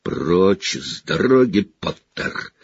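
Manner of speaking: spiteful teacher blocking the door. Acted. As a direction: spit it at the boy, lightly. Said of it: "злобствовал Снегг".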